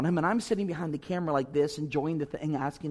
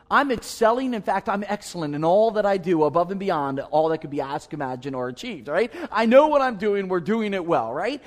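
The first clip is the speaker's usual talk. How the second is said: mock boasting; 6 dB louder than usual. Mock boastful staff-meeting answer.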